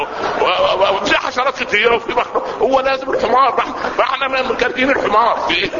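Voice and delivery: high, rising exasperated peasant complaint; a villager fed up with donkey sermons, high and exasperated. Retold or imitated. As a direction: plead as a fed-up villager, voice climbing. Peasant objecting to the preacher.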